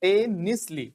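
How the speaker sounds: "Simultaneously" as SY-mul-TEN-is-lee; model pronunciation. Shown as a demonstration. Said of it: "क्या बोला मैंने?".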